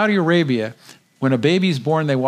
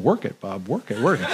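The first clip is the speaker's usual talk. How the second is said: laughing egging on; 3 semitones lower than usual. Retold or imitated. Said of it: "Larry's going".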